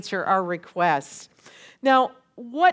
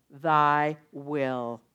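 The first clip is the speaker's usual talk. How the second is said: very slow, lower, solemn; slow solemn prayer; 7 semitones lower, much slower than usual. Shown as a demonstration. Leading the congregation in prayer, very slow and solemn. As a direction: draw out each word reverently. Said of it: "Will you say that with me?".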